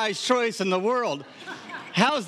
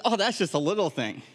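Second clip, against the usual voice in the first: mock offhand. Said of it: "And Jesus has said".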